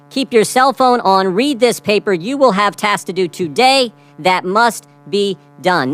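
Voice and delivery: slow, urgent reading of the order; measured, pressing urgency; intense reading. Retold or imitated. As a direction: read it like a house-on-fire command. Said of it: "Notice the intensity".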